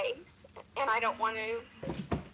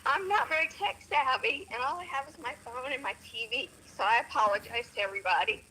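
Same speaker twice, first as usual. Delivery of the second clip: phone speaker; 4 dB louder than usual. Real, not acted. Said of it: "So I'm on my phone talking to you".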